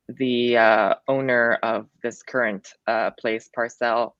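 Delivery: halting and hesitant with fillers; a nervous guest stumbling over words. Real, not acted. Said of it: "I'm a little nervous".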